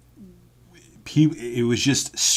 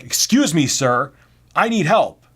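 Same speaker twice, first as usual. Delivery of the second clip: higher, louder imitation of a demanding customer; impatient customer; 6 semitones higher, 6 dB louder than usual. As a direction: interrupt insistently, mimicking her.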